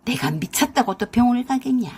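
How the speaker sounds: a mild, understated booming mother-in-law; mother-in-law refusing the hospital, mildly booming. Acted. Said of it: "쩌렁쩌렁 목소리로 그러셨어요".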